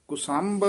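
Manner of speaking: ਕੁਸੰਭ said alone, with ਕੁ on its short u vowel; careful pronunciation. Shown as a demonstration. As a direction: isolate ਕੁਸੰਭ, clear short u after k. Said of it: "ਕੱਕੇ ਦੇ ਔਂਕੜ ਹੈ".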